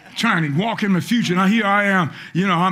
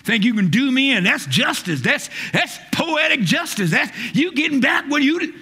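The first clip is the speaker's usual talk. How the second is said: mock self-righteous gloat; a touch of smug told-you-so; smug attitude; 6 semitones higher than usual. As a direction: savor the payback smugly. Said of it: "got this attitude".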